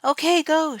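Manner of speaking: high squeaky little voice. A narrator's reading. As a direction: squeak it like a tiny rat. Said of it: "she squeaked".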